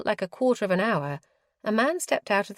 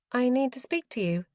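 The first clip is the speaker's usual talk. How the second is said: dumbly; 6 semitones higher than usual. A narrator's reading. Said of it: "she said dumbly".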